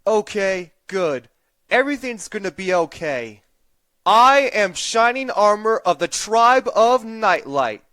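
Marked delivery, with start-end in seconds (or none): 4.0-7.8 formal declaration. Acted. Stomping, declaring his tribe.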